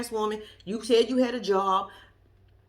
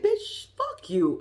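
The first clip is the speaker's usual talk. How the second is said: mock shriek; 12 semitones higher, much slower than usual. Quoting Q cursing.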